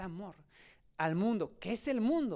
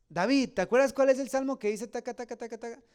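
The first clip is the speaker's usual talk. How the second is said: loud mock question; 4 semitones higher, 5 dB louder than usual. Friend asking about a psalm.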